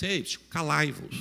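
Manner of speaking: understated quoted biblical command; overly polite hushing. Retold or imitated. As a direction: politely hush a noisy child. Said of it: "É muita etiqueta".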